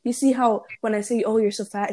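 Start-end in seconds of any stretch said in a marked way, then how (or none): 1.2-1.9 blunt, mean-sounding remark; rude. Shown as a demonstration. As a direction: say it like an insult. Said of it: "it sounds, like, really rude".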